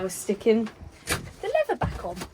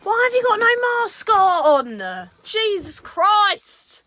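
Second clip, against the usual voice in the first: high loud disbelief; drawn-out outraged exclamation; exasperated; 10 semitones higher, 8 dB louder, slower than usual. Real, not acted. Dad spraying glue maskless.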